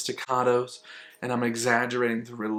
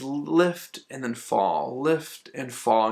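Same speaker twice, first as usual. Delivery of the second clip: "lift" drawn out and raised, easing down onto "fall"; much slower than usual. Shown as a demonstration. Music teacher showing phrase shape, "lift" held and "fall" eased. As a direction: stretch "lift", then let "fall" settle slowly. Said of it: "You never wanna jolt down".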